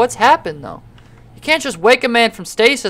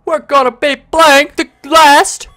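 show announcer; 4 semitones higher, 4 dB louder than usual. Acted. Announces next game, reads intro.

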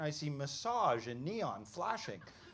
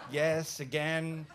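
louder, firm comeback; retold blunt answer, landed firmly; defiant retort; 6 dB louder, much slower than usual. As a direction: admit it without apology. His own defiant answer back.

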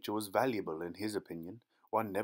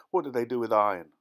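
fascinated; 3 semitones higher, 7 dB louder, faster than usual. Acted. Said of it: "Claude asked, fascinated".

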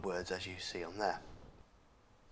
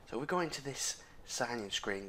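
ordinary talk

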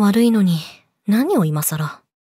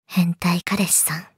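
slow teasing whisper; 6 semitones lower, 5 dB quieter, slower than usual. Acted. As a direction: purr it slowly into his ear. Mocking captive boyfriend.

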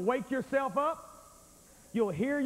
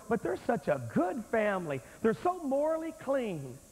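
imitated well-meaning defender. Preacher mimicking listeners who defend a family, light mock protest. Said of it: "But you sit there and go".

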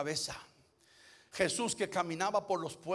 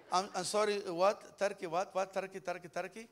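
mock immigrant English accent. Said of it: "parecía que hacía dos días que cruzó la frontera".

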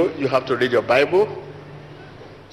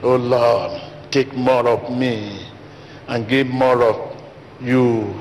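mock prayer aloud; 3 semitones lower, slower than usual. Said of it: "Whom are you talking to".

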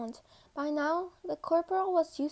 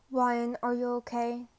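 tense; 3 semitones lower, 3 dB louder than usual. Acted. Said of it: "he asked tensely".

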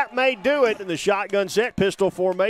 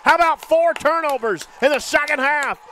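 excited call; 5 semitones higher than usual. Real, not acted. Fumble return call.

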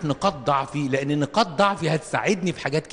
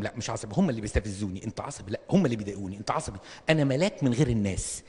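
lower, softer sulky denial; mock denial; 5 semitones lower, 3 dB quieter than usual. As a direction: acts out a man denying his temper, sulkily. Denying being short-tempered.

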